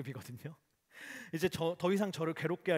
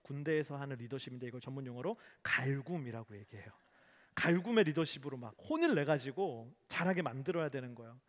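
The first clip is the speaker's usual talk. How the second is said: ordinary talk, nothing marked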